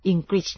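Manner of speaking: English as "ing-grit", hard g; G sounded. Shown as a demonstration. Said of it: "ซึ่งมาจากการออกเสียงว่า". (อ่าน English ว่า อิงกริช มีเสียง G)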